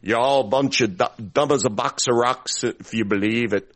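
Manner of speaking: light mock Jamaican-style accent; imitated Jamaican-style accent. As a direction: try out a Jamaican-sounding impression. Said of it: "I'm doing the one that is".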